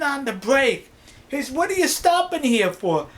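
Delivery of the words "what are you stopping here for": higher-pitched retold question; acted passenger's protest; puzzled demand. Passenger questions the driver's sudden stop, puzzled and demanding.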